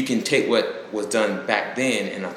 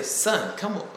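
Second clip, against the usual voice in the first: a hint of a stern father; stern inflection; 9 semitones higher, 6 dB quieter, slower than usual. Father scolding crying baby, lightly stern. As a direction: say it like a fed-up dad. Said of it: "the inflection in my voice".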